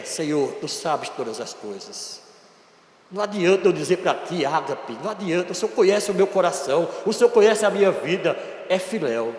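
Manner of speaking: soft, low, ashamed murmur; ashamed Peter. Acted. Peter answering Jesus without courage, soft and ashamed. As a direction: mumble it like a disciple who lost his nerve. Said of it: "a declaração de Pedro é esta".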